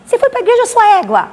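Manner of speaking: high, loud mock of her angry mother; mother yelling at her daughter for going to church, high and loud; scolding mother. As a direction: shriek it like a furious Bahian mom. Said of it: "Aí ela falou assim".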